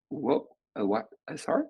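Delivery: rising, caught off guard; startled. Retold or imitated. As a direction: sound jolted mid-jog. Startled by the BlackBerry call.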